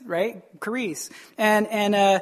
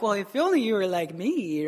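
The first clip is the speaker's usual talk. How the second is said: mock self-righteous swagger; holier-than-thou; 4 dB quieter than usual. Believer looking down on a fellow sinner, holier-than-thou. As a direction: put on a superior, preening tone. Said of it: "more holier than thou attitude".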